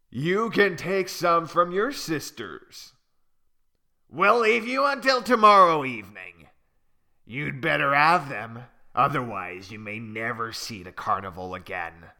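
a lightly voiced bully ostrich, threatening; menacing ostrich. Big ostrich threatening little Malu, mildly menacing.

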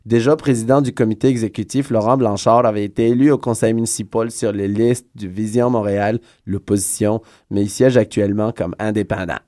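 news article read-out. Real, not acted. Reads out newspaper article.

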